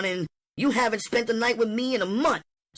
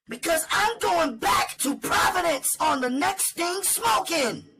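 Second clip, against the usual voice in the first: much higher, shouting woman's voice; angry tirade. Acted. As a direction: hurl every complaint at him.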